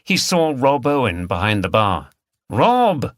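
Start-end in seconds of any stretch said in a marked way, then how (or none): 2.5-3.1 called out high and loud across the bar; calling out. Acted. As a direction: call his name over the pub noise. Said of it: "he called out".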